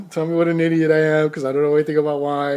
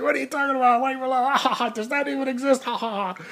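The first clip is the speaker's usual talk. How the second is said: higher voice, laughing in disbelief; mocking laughter; 9 semitones higher than usual. Friend teasing the driver about white Merlot, laughing mockery. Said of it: "He's like".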